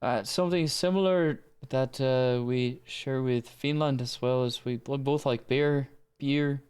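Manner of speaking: imitated Danish accent. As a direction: echo a Dane speaking English. Mimicking the Danish speaker's accent.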